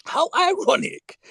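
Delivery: high, slow, drawn-out gratitude; stretched-out elated cry; gleeful thanks. Real, not acted. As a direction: crow it to the heavens. Gleeful at rival's karma.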